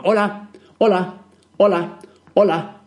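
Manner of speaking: put-on a little boy greeting the whole shop, dragging each hola; child calling out loud. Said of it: "a grito pelado".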